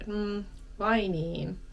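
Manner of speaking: slow, let-down "Hmm, vai niin?"; disappointed. Shown as a demonstration. Teacher demos a disappointed reply, slow and let-down. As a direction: sigh it out, mildly disappointed. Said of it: "It sounds a bit disappointed".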